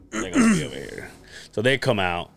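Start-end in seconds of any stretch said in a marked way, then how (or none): 0.1-1.1 high, eager call to the others; excited guess. Retold or imitated. Sure of himself, he turns to the stage behind. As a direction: blurt it out thinking you've got it figured. Turning around expecting band.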